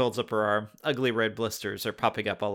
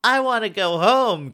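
high, loud mock wail; 10 semitones higher, 6 dB louder than usual. Katie wails to go home, loud and hammed-up. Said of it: "Katie wails".

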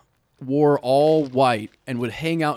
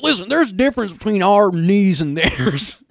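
mock bigot; 4 semitones higher than usual. Mocking a bigot lecturing his friend, raised pitch. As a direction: play a self-assured bigot explaining. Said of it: "You're just like".

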